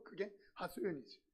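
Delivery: whispered aside. Real, not acted. Pastor whispers an aside to the congregation. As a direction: drop to a whisper, confiding. Aside after the whining prayer.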